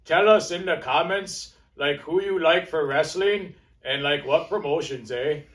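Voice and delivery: mock Canadian accent with eh; hammed-up Canadian accent. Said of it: "That's my Canadian, my Canadian accent".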